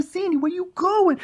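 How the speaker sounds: very high, slow greaser whine; teasing Danny Zuko. Retold or imitated. Uncle trailing costumed niece, high teasing Danny Zuko whine. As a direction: pester with a high drawn-out call. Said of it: "I just kept following her around".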